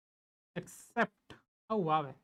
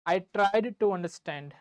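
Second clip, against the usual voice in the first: very slow, spaced-out teacher repeat; slowly, so the class can write; slow dictation; much slower than usual. Shown as a demonstration. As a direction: dictate it word by word. Dictating the English translation to class.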